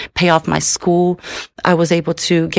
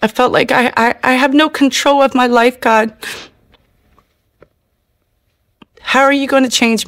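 pleading prayer; 3 semitones higher than usual. Real, not acted. Woman in jail begging God to help her, tearful. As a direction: beg God through tears.

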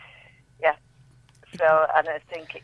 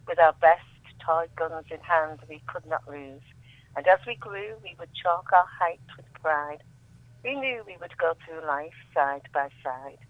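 poetry reading; 4 dB quieter than usual. Acted. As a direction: let each line land with quiet weight. Reads her war poem aloud.

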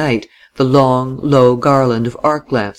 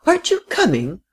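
higher, pleading question from the footboard; anxious cry; 9 semitones higher than usual. Acted. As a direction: call out, suddenly worried. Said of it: "cried the frail, excitable little lady".

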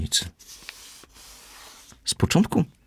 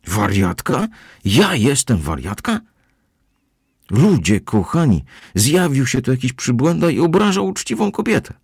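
much higher and louder, playing to the crowd; outraged yelling; 9 semitones higher, 4 dB louder than usual. A narrator's reading. Housekeeper yells at Kozłowski for everyone, high and loud. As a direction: rant for all to hear. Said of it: "Rozkrzyczała się tak bardzo".

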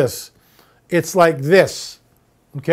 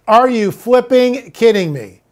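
slow, exasperated disbelief, higher; incredulous; 4 semitones higher, slower than usual. Real, not acted. Host fed up with money-tree budgeting, incredulous. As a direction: spell out your disbelief slowly.

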